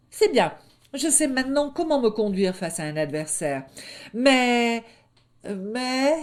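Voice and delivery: high, loud mock-innocent question; high cub voice, slyly teasing; teasing little wolf. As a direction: needle him gently. Little wolf teases brother.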